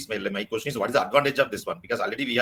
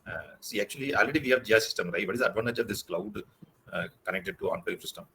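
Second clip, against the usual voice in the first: barely audible; 3 semitones lower, 6 dB quieter than usual. Real, not acted. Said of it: "Your voice is very low".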